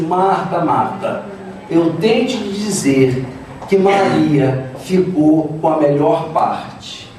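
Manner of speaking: low, slow, measured reply; Jesus. Acted. Jesus gently answers complaining Martha, calm low reply. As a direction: settle it calmly, word by word. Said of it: "vira-se para Marta e diz assim".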